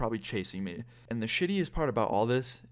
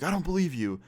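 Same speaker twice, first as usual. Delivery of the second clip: disbelieving dad; 7 semitones higher than usual. Retold or imitated. Dad's suspicious reply in retold argument.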